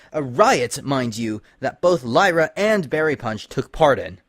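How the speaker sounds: a ruler tearing into her spies; angry princess. Acted. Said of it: "her expression turning angry".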